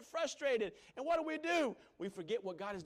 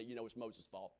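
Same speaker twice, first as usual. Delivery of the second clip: lower, grumbling complaint; griping crowd; 10 semitones lower, 3 dB quieter than usual. Retold or imitated. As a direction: whine like an online crowd. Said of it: "they'd say".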